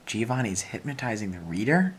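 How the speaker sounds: "Giovanni is hypnotizing the reader?" as a rising question; surprised realization. Shown as a demonstration. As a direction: catch yourself and question it.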